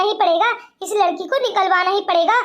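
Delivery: a villain hatching a plan; scheming aside. Acted. Bhabhi plotting to herself to frame the girl, scheming and low.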